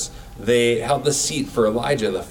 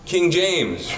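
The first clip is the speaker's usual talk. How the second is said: lightly hyped-up game announcer, higher, drawing out the intro at the end; a hint of a stadium hype man; arena announcer; 5 semitones higher than usual. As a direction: pump up the crowd like a courtside announcer, stretching the final call. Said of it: "I am the announcer at the beginning of the game".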